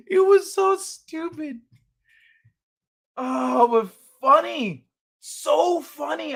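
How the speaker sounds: high, slow, laughing disbelief; amused. Real, not acted. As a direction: still giggling over it.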